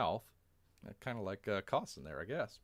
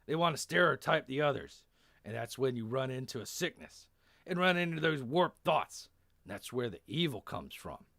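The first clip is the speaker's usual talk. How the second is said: put-on emphatic Texan accent, raised and louder; 4 semitones higher, 5 dB louder than usual. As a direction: give a rousing speech as a Texan. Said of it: "a weird Texan accent".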